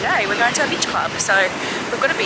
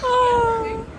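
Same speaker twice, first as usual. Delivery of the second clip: laughing; much slower than usual. Real, not acted. Laughing at sneaky seagull.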